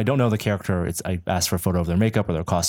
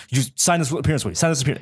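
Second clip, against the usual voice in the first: quick, higher-pitched insistent imitation; adamant; 5 semitones higher, faster than usual. Release man keeps demanding a signature, imitated adamantly. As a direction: rattle out the repeated demand. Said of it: "He was really adamant".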